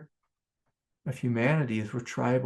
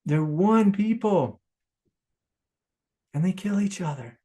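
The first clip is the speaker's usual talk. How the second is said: higher, mock-baffled alien voice; incredulous aliens; 7 semitones higher, 4 dB louder than usual. Aliens joking about humans, incredulous and higher. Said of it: "They're like".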